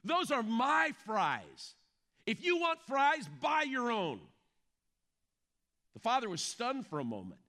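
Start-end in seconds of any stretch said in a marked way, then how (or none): 0.0-4.2 higher-pitched mock indignation; stern young son. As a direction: lightly act out a son scolding his dad. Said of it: "looked at his dad very sternly".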